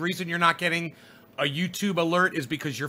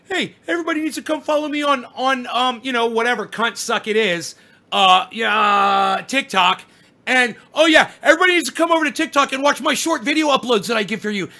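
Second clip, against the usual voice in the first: mocking influencer; 4 semitones higher, 5 dB louder than usual.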